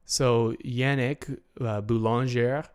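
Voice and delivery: put-on slow, clumsy French accent on the name; a bad attempt at a French accent, drawn out; awful French accent. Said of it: "that was an awful French accent".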